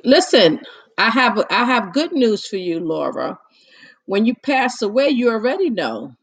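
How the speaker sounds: loud, eager good news; excited loud announcement. Real, not acted. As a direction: burst out with the news. Suddenly addresses Laura loudly.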